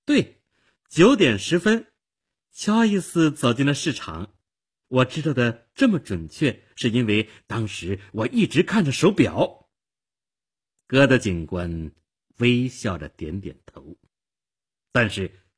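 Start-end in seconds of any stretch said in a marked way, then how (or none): 0.0-9.7 eager, higher-pitched witness confirming; happy. Acted. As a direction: confirm it happily, starting high. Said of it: "她高兴地说".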